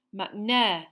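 urgent call. Acted. Harry spots the executioner.

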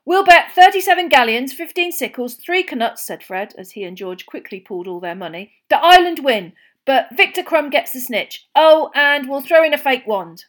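loud, high, quick bet; eager twins. Acted. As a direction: rush the bet out excitedly.

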